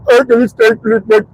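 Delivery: imitated babbling on the phone; mimicked unintelligible caller noises; mock gibberish. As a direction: stammer out nonsense syllables. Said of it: "I just talk gibberish".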